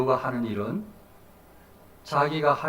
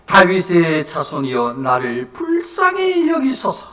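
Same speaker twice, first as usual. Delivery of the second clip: slow, drawn-out plea, raised voice; crying out; 5 dB louder, slower than usual. Acted. Blind beggar calling to Jesus for mercy, crying out. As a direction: stretch the plea out, lifting the pitch. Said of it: "더욱 크게 소리 질러 이르되".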